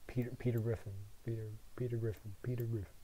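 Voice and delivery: quiet, quick mutter to oneself; absent muttering. Real, not acted. Muttering to himself while grabbing a picture, distracted. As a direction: repeat it under your breath.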